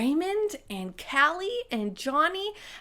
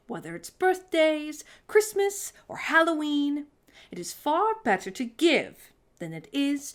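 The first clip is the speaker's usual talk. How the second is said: higher, grand aunt sharing a rule; grand auntie; 4 semitones higher, 3 dB louder than usual. Acted. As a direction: lay down the rule with flourish. Auntie Claus words of wisdom.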